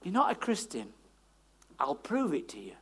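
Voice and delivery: lightly voiced inner accuser; little accusing voice. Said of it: "the little voice says".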